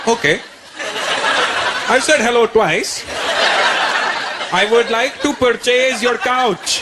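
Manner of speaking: slow, over-enunciated, losing patience; slow impatient dad. Retold or imitated. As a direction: spell it out to someone who doesn't understand.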